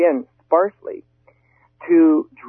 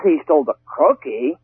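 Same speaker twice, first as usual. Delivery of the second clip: "cookie" pushed up and leaned on; stress on COOKIE. Shown as a demonstration. Speaker showing inflection on one word, stress on "cookie". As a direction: save the weight for "cookie" at the end. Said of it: "I put inflection on one word".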